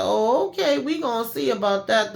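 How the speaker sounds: retold taunting threat; mock threat. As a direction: answer defiance with a lifted, menacing tease. Acted interrogator threatening a defiant captive.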